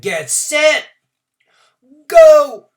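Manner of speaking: high call rising to a full yell on Go; starter's call. A narrator's reading. Starter Bump sending the runners off, loud yell. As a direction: fire them off the line. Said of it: "Bump Gilliam jumped into the let-up".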